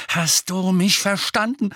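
forceful, heated question; angry demand. A narrator's reading. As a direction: press each word hard for an answer. Harry repeats threat more forcefully.

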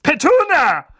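high, loud call across the hall. Acted. Aunt greeting Petunia with a loud high call. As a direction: call her sister-in-law by name. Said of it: "rief Tante Magda".

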